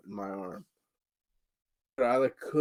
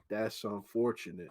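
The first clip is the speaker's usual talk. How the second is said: deadpan remark; 2 semitones lower, 5 dB quieter than usual. Retold or imitated. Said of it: "he said".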